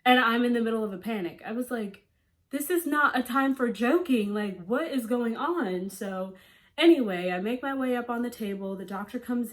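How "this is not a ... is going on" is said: raised, exasperated voice; exasperated outburst. Retold or imitated. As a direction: snap at them to stop joking. Panicking, upset at joking staff.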